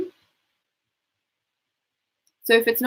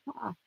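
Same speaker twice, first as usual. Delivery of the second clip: breathy yawning ha; 19 dB quieter than usual. Shown as a demonstration. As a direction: open exhale on ha. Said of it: "Keep pushing the breath out".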